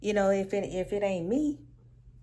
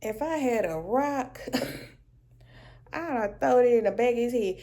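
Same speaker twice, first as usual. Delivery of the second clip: laughing exasperation; 3 semitones higher, 3 dB louder than usual. Retold or imitated. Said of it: "I was like".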